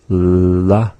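la said as a plain clear L; tongue on the ridge for la. Shown as a demonstration. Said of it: "begin with the L".

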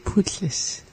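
Putlis whispered softly with a falling end; playful whisper. Shown as a demonstration. Learner savoring the word, whispering Putlis. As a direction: breathe out Putlis as a hushed whisper. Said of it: "It's just so fun to say like that".

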